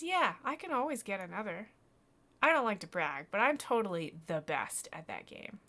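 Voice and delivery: put-on loud, cocky kid voice; boastful boy. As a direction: brag loudly like a proud boy. Voices boy boasting about the game.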